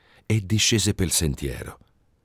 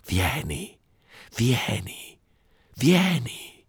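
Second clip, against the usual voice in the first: siren's call; 7 semitones higher, much slower than usual. A narrator's reading. Siren calls the monk.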